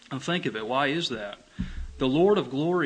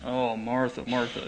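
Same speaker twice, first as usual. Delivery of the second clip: gentle. Shown as a demonstration. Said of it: "it's a gentle thing".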